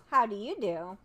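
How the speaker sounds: put-on polite girl. Dorothy greets the Scarecrow back, polite girl voice. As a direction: return the greeting sweetly. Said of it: "replied Dorothy politely".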